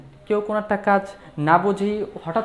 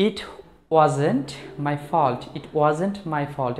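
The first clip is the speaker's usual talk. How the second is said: slow model phrase; much slower than usual. Shown as a demonstration. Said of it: "যদি আমরা এরকম বলি".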